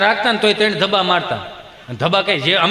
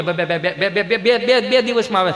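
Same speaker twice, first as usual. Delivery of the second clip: stuttered, halting answer; stammering son. Acted. Son answering father about the result, stammering. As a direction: trip repeatedly on the first word.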